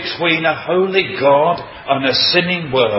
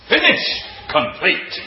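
"Finished" flung out much higher, then "complete" settles; a triumphant cry from the cross; mighty cry; 4 semitones higher than usual. Acted. Preacher voices Christ's last words on the cross, mighty triumphant cry. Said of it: "he said with a mighty voice".

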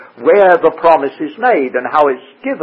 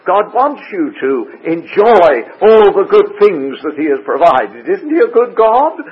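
slightly higher-pitched imitation of a prosperity preacher; mimicked prosperity preacher; 4 semitones higher than usual. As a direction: lightly voice an insistent prosperity teacher. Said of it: "See, they talk like this".

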